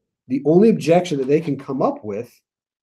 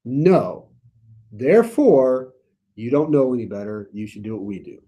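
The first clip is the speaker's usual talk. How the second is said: condescending authorities. Retold or imitated. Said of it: "what their argument is".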